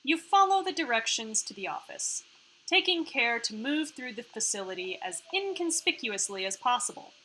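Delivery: even, measured narrator read; scene narration. A narrator's reading. Narrator leads players through the facility, scene narration. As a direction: set the scene like a game narrator.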